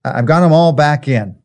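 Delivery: a shepherd glad every sheep is in; relieved shepherd. Retold or imitated. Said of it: "a shepherd would say".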